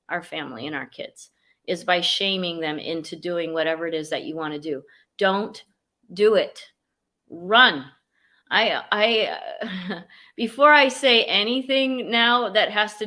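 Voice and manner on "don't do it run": emphatic command. Real, not acted. Urging listeners to flee shame.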